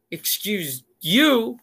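"Excuse you?" slow and snippy, stressing "you"; sassy retort. Retold or imitated. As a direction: throw it back at him. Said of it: "And she was like".

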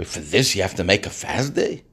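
incredulous simple man. Retold or imitated. Simple Jew incredulous at the rabbi.

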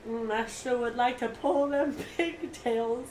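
slow, leering mock creep voice; creepy drawl. Retelling the Walmart stranger, slow leering mock voice. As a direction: imitate the creepy old man, slowly. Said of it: "He goes".

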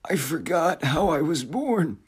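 brooding uncanny figure, musing aloud; eerie otherworldly voice. Acted. Frederick's opening monologue.

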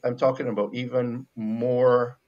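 normal talking voice

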